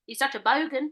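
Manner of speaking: "bogan" turned up like a question; rising end. Shown as a demonstration. Demonstrating the accent to co-host, "bogan" rising at the end. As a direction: lift BOGAN at the close, Australian style. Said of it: "They always go up at the end".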